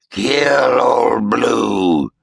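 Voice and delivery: put-on very slow, drawn-out old man's scoff; scoffing old ghost. A narrator's reading. Ghost mocks Roan's plan, slow scoffing old voice. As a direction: savour the words, amused and doubtful.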